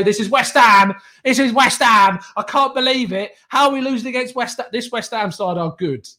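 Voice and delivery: hammed-up exasperated rival fan; mock Hugh Izzy. Imitating a rival fan who can't believe his team is losing. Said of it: "Don't let Hugh Izzy turn around and say".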